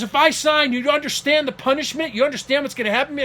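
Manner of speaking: high, agitated imitation of dad; imitated panic. Father fearing punishment if he signs, imitated panic. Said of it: "Now you're freaking out again".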